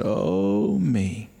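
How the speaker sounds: drawn-out moan of an aged patient; imitated moan. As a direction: imitate a dying man's weary moan. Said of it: "he said".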